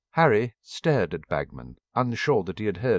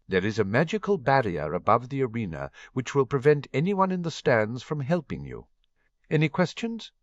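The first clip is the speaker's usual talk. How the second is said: lightly voiced official Bagman; 4 semitones higher than usual. Narrator voices Bagman's rules.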